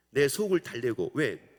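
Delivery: ordinary talk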